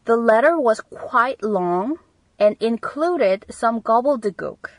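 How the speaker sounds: slow, careful teacher read; deliberate classroom dictation; slow model reading. Shown as a demonstration. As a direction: read it out slowly for learners. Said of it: "어려운 단어들도 섞여 있었다라고 할 때".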